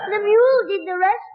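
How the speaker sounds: laughing through the boast; cackling at his own prank; gleeful laugh. Acted. Boy laughing as he tells of the mule prank.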